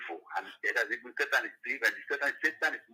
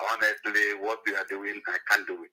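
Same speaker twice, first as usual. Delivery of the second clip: caller over a phone speaker. Real, not acted. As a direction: voice coming through a phone line. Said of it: "Mazi, you are on speaker".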